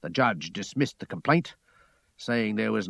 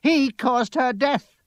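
high, loud, slow accusation; drawn-out, high-pitched shout; 13 semitones higher, 6 dB louder, slower than usual. A narrator's reading. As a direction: hurl the blame at full pitch. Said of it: "she shouted".

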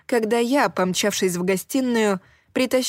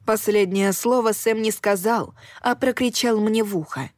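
story narration. A narrator's reading.

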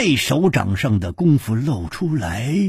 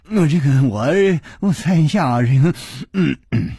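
stammering, louder and breathless; panting fear; 3 semitones higher, 4 dB louder than usual. Acted. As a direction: gasp out the words in panic. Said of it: "喘着气说".

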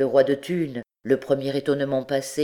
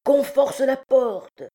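high, slow, stretched-out yell; shouted command; 11 semitones higher, 4 dB louder, slower than usual. A narrator's reading. Chief ordering the door forced, shouting. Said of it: "cria Trouillefou".

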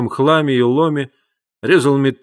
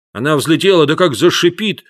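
put-on higher and louder, eager child; echoing excitedly; 4 semitones higher, 5 dB louder than usual. A narrator's reading. Brother echoes Paolo about the rocket, eager and loud. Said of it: "вторил Антонелло".

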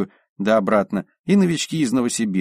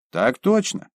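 snappy military reply; 10 semitones higher, slower than usual. Acted. Bublikov stands to attention.

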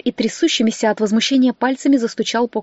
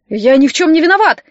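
истеричный визг, выше и громче; доктор в панике визжит; истерический визг; 5 semitones higher, 5 dB louder than usual. A narrator's reading. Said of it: "истерически завизжал Дмитрий Фёдорович". (истерически взвизгнуть, выше и громче)

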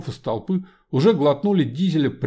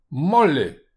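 calling out; 3 semitones higher, 7 dB louder than usual. Acted. Homunculus calls Molly.

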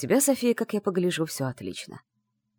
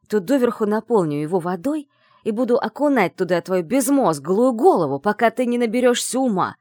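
louder, menacing threat; angry threat; 5 dB louder than usual. Acted. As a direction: threaten her with rising fury. Andrey threatens her.

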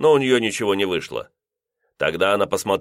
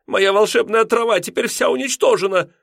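much higher, despairing cry; wailing landlady; 14 semitones higher, 4 dB louder than usual. A narrator's reading. Landlady lamenting her destroyed grass, high wail. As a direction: mourn the lawn as if a tragedy.

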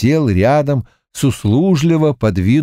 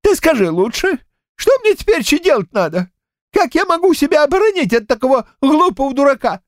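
put-on high old man's voice, much higher, fast at the end; fretting old man. A narrator's reading. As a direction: pester for help like a panicked grandad, quick.

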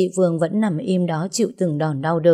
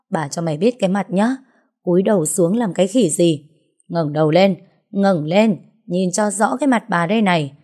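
mildly raised, scolding tirade; angry cursing. Acted. Wronged wife berating her husband's supposed mistress, angry cursing. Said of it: "rồi mới chửi bới ầm ĩ".

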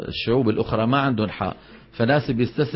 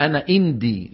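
put-on Tihama accent. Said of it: "شو يعني إندي؟ عندي".

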